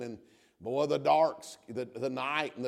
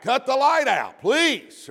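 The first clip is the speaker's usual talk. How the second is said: mock plea; 10 semitones higher, 10 dB louder, slower than usual. Kid asked to turn light off.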